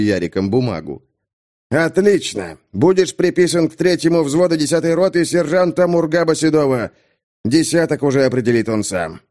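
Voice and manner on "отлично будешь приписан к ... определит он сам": stern captain. Acted. Капитан отдаёт приказ.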